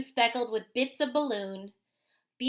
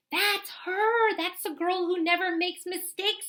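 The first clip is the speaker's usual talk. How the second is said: high, eager pointing out; excited woman; 5 semitones higher than usual. Acted. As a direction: gush like an excited fan. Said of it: "said a woman".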